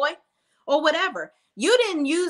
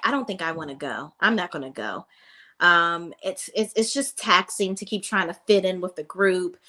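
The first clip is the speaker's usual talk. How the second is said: low, subdued mock pouting; imitated pout; 4 semitones lower than usual. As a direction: imitate someone reluctantly bowing out, voice dropped. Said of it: "Maya is pouty and says".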